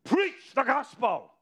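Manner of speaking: high, slow, commanding divine voice; voice of the Lord. Retold or imitated. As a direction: pronounce it like God speaking from above. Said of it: "And again the voice said".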